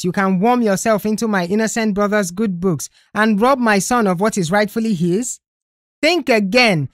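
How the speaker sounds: high, heated scolding; angry accusation. Acted. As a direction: rail at him furiously. Furious mother accuses Uche.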